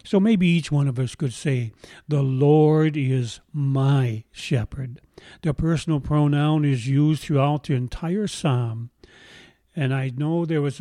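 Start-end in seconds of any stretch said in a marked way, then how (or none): 2.1-5.0 slow, measured, every word weighed; unhurried heartfelt recitation; slow invitation to recite. Real, not acted. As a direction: lead the congregation in saying it. Inviting each to say it.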